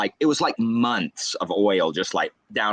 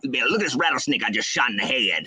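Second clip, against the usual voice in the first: lightly mimicked Southern dad; dad's Southern accent. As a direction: stretch the vowels in a Southern accent. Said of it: "they have strong Southern accents".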